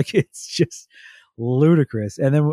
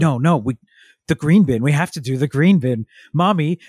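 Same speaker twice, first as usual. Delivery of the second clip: mock childish protest, insistent but not crying; mildly freaking-out child; 2 semitones higher, 4 dB louder than usual. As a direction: imitate an upset child pleading, raised only a little. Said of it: "freaking out and crying".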